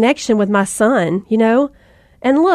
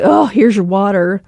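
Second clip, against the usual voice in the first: exasperated huff, briefly acted; grudging, sighing reply; 2 semitones lower than usual. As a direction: toss it out like a put-upon parent. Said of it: "you give this tone of exasperation".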